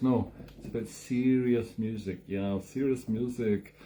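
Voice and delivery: slow, mock-serious slight European accent; drawn-out faux European accent. Host joking about serious music in a slight European accent. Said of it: "speaking with a slightly European accent".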